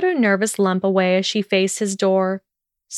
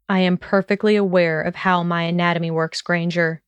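lazy arrogant nobleman. Acted. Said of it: "he drawled".

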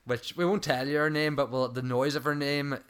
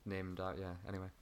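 trailing off; 3 semitones lower, 7 dB quieter than usual. Real, not acted. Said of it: "you trailed off with that one".

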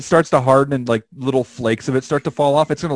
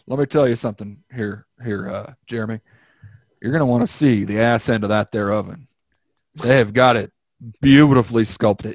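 switching impression voices; 5 semitones lower than usual. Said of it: "doing an impression of that guy".

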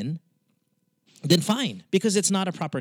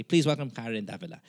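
lightly voiced podcast host intro, Karen Davila said the American way; a hint of a formal on-air welcome; 3 semitones lower, 4 dB quieter than usual. Host recalling his on-air intro, mild announcer voice. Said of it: "I say".

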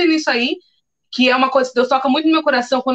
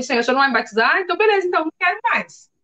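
annoyed at God; 3 semitones higher, much faster than usual. Retold or imitated.

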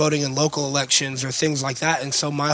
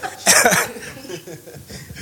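raspy laugh; 4 semitones higher than usual. Real, not acted. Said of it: "I sound like I've been smoking".

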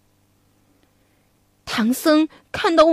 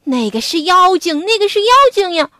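higher, fast urgent plea; pleading gods; 4 semitones higher, faster than usual. Acted. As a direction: insist desperately it's a demon. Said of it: "拼命地为悟空求情".

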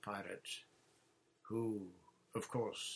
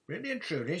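eager question pitched higher; a young girl who can hardly believe it; excited girl; 9 semitones higher, 8 dB louder, much faster than usual. Acted. Peggy eagerly asks about battle.

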